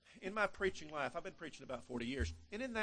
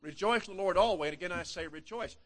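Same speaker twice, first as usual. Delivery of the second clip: loud, higher, ringing proclamation; big emphatic; 4 semitones higher, 8 dB louder than usual. Shown as a demonstration. Preacher repeating the verse so the congregation gets it, big and loud. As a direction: make them really get it. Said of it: "I want you to get it big".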